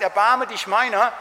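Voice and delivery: loud, slow plea for mercy; pleading cry. Retold or imitated. Mother of a sick child cries out to Jesus, loud and slow. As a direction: cry out slowly, begging for help. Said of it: "sie schreit zu Jesus".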